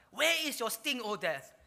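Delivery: loud jeer, high then dropping; sarcastic taunt at full volume. Acted. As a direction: throw it out as a scornful challenge. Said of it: "That was a sarcastic remark".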